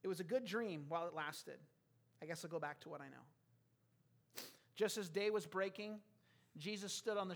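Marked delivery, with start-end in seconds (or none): 0.0-3.2 low, deflated giving up; subdued acted resignation; resigned defeat. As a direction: let the hope drain out quietly. Acts out Peter giving up.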